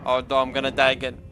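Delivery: begging to be let out in panic; panicking gamer. Real, not acted. Trapped in the game machine.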